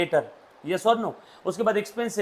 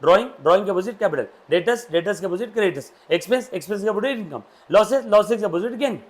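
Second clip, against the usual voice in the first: quick drill recitation. Shown as a demonstration. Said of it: "One more time".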